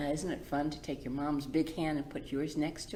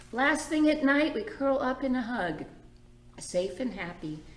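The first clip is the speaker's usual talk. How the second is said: bright, lilting story read; gentle read-aloud for the little ones; reading to children; 2 semitones higher than usual. A narrator's reading. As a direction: read it like a picture book to kids. Reads picture book aloud.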